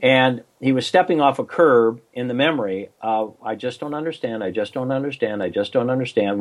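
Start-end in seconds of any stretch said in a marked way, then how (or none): 3.4-6.4 quiet, dazed repeating of one line; repeating same phrase flatly. Retold or imitated. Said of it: "We had him repeat it over and over".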